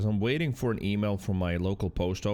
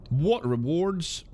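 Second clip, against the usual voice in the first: surprised; 7 semitones higher, much slower than usual. Real, not acted. Surprised reaction to rewards.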